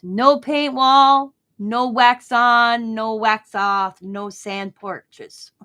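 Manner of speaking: slow, loud, mock Chinese accent, word by word; imitating Chinese doctor's accent, drawn out and emphatic. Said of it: "He goes".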